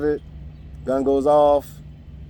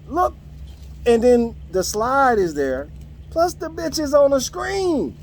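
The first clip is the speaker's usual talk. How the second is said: ranting; 4 semitones higher than usual. Real, not acted. Boss ranting at coworkers who can't brief, in a heated angry voice. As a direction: vent your fury at the idiots who can't read slides. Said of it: "I'm ranting".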